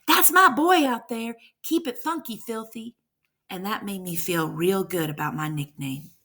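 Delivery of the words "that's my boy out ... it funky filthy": louder and higher, cheering from the stands; dad proudly yelling for his son at the game. Retold or imitated. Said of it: "smiling and screaming".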